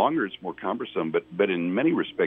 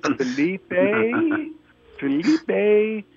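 a nurse calls the patient's name, raising her voice each time; calling out a name; 11 semitones higher, much slower than usual. Retold or imitated. Nurse calling louder, nobody answers.

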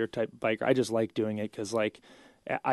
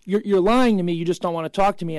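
louder, higher mock accusation; mock indignant Italian; 5 semitones higher, 6 dB louder than usual. Italians insisting he is lying, a hammed-up indignant accusation. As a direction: play the offended Italian local, hammed-up.

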